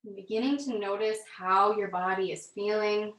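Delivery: calm, measured yoga-class delivery with long pauses; guided yoga instruction. Real, not acted. Yoga teacher leading students through gentle movement, calm guided instruction.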